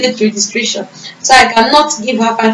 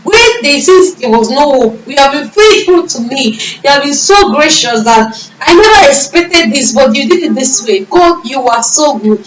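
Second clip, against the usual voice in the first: tearful prayer; 4 semitones higher than usual. Retold or imitated. Running down the street, crying thanks to God. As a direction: pour it out to God through tears. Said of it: "I started crying".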